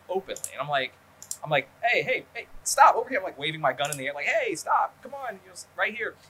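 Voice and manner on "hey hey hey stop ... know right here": much higher, louder retold call to a passing car. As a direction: wave down the car, half-shouting.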